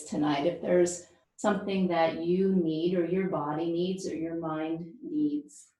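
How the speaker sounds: calm yoga breathing guidance with long pauses; guided relaxation. Real, not acted. Yoga teacher settling the class into breath, calm guided relaxation. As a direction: ease them into breathing, leaving space between phrases.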